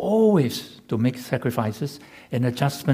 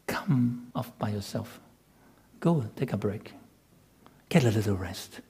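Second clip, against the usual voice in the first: gentle; 6 dB quieter than usual. Acted. The Lord's gentle invitation.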